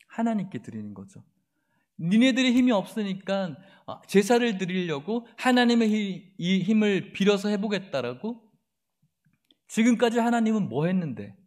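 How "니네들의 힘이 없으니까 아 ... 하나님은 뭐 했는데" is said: contemptuous mockery; mocking taunt. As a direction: sneer to shake their faith. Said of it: "라는 거예요".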